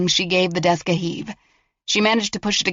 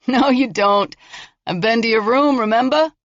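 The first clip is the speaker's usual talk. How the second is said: higher, mocking taunt; taunting killer; 5 semitones higher, 4 dB louder than usual. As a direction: sneer at her bluff.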